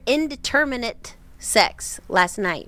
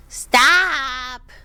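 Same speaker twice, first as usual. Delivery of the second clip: joking stop; 3 semitones higher, 7 dB louder than usual. Retold or imitated. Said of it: "Laughing, joking".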